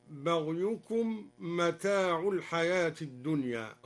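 "متاع" read mata'u, ending in u; mata' with damma. Shown as a demonstration. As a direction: give "متاع" a final damma. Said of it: "على أنه خبر". (برفع "متاع" بالضمة)

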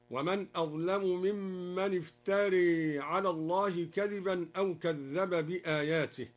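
"افتري" ending in a long e, iftare; imala on iftara. Shown as a demonstration. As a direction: tilt the final a of "افتري" towards e. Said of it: "وكذا أمال قوله تعالى الراء من افترى". (بإمالة الراء في "افتري")

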